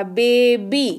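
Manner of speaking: "बेबी" in two beats, ending in a clear long ई; final ee sound. Shown as a demonstration. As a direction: bring out the ई at the end of "बेबी". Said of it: "ई के जैसा".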